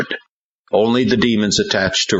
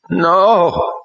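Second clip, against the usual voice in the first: much higher loud protest; protesting boy; 14 semitones higher, 4 dB louder than usual. A narrator's reading. Ron protesting against Hank. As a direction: protest sharply. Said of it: "Ron protested".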